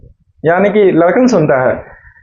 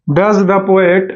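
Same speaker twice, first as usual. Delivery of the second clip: very slow, word by word for writing; slow dictation; much slower than usual. Shown as a demonstration. Teacher dictating slowly to students writing notes. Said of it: "dictating answer slowly".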